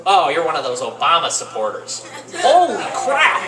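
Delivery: put-on sneering old lady turning hostile; mock nasty old lady. Comic old lady turning on Obama voter, sneering. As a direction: snap it with hammed-up scorn. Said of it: "went from the nicest person".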